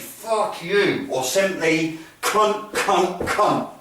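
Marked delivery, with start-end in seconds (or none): 0.0-1.1 higher-pitched aggressive curse; aggressive swearing. Shown as a demonstration. Instructor demonstrating a fight trigger phrase, aggressive swearing. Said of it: "should be swearing". 2.2-3.7 punched single-word curse, repeated; each word a separate verbal jab; aggressive monosyllabic swearing. Shown as a demonstration. Instructor showing simple trigger words, aggressive staccato swearing. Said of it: "really simple, monosyllabic".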